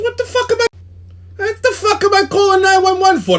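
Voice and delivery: losing it completely on the phone; second take, full-blown shouting; furious yell. Retold or imitated. Retold fight, escalating.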